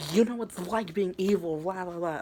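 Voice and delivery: high, loud mock rant; imitated freak-out. Retelling the villain's emotional outburst, mock freak-out. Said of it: "she was freaking out".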